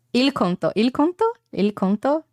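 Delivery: "Il conto" tried over with rising doubt; practising Italian. Shown as a demonstration. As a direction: sound out "il conto" unsure, as if checking. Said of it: "Is it "il conto"?".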